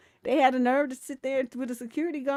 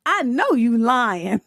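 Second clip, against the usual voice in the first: much louder, slow yelled callout; yelled accusation; 2 semitones higher, 11 dB louder, slower than usual. Retold or imitated. Someone in heaven calling out a liar, slow loud yell. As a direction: bellow it slowly across heaven. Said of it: "somebody yell out".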